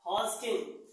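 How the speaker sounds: हॉस्किन said with the d silent, as "hoskin". Shown as a demonstration. Teacher shows the class how to say हॉस्किन, with the d silent. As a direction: say हॉस्किन with no d sound, just "hoskin". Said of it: "डी silent".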